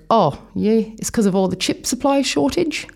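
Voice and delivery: bad Kiwi accent impression; the speaker's bad Kiwi accent. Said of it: "really bad impersonation of a Kiwi accent".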